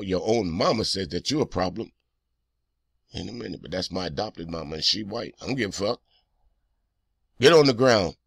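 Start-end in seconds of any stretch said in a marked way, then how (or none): 3.1-6.0 put-on much softer, low, timid voice of a cornered kid; shrinking reply, small and quiet; meek son's reply. Son answering the police, meek and much softer. 7.4-8.2 louder barked police command; cop shouting. Retold or imitated. Officer ordering the son down, a loud mock shout.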